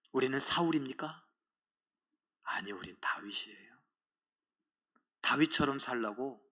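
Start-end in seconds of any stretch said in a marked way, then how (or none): 2.4-3.8 unvoiced hushed whisper. Preacher to congregation, whispering that they are David. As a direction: answer softly, as a secret. Preacher answers his own question.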